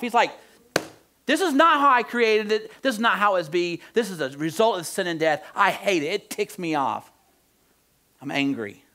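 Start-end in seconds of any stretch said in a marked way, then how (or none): 1.2-8.8 mild mock anger, loud and high, then easing; ticked off, starting forceful and settling down; angry God. Preacher voicing God upset at death, angry. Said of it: "And God's angry. I like it that God gets ticked off".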